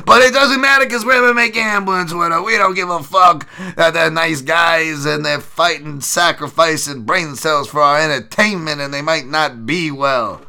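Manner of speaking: loud, high satirical rant, slow and heavy in places; mock gambling bro. Mocking MMA gambling Twitter as callous bettors, loud high rant. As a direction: play a callous bettor who mocks caring.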